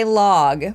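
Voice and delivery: "log" with an open vowel, as in epilogue; log as in prologue. Shown as a demonstration. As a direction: say "log" to rhyme with dog. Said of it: "pronunciation of Logtown is, like, epilogue or prologue".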